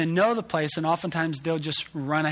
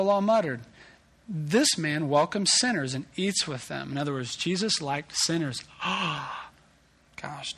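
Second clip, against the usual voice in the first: measured, deliberate Bible reading; solemn reading of Luke; scripture reading. Acted.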